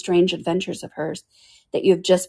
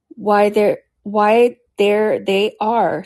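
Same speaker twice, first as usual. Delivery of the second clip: triumphantly; 3 semitones higher, 5 dB louder, much slower than usual. A narrator's reading. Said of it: "said the king triumphantly".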